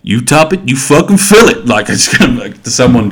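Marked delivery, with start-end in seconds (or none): 0.0-1.7 gruff boss. Retold or imitated. Retelling Greg from The Wire scolding Carcetti, a raised mock snap. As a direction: bark it like an exasperated boss. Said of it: "Greg's like".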